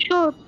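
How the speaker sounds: শর্ট with no R sound; silent R. Shown as a demonstration. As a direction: say শর্ট leaving the R unpronounced. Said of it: "এখানে আর এর উচ্চারণ হবে না".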